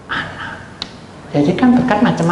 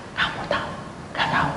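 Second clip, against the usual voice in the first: whisper; 9 dB quieter, faster than usual. Retold or imitated. Woman whispers news.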